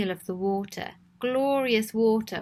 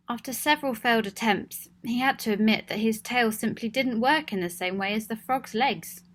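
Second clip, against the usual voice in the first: gentle storybook reading; story narration. A narrator's reading. Storyteller introducing Cecil to listening children, gently read.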